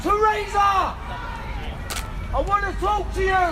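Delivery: yelling across the room. Real, not acted. Protester shouting at Downing Street.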